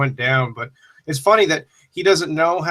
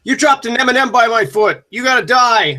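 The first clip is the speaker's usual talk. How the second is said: crazy schoolgirl; 9 semitones higher, 4 dB louder than usual. Pretend. Acting out violent schoolgirl.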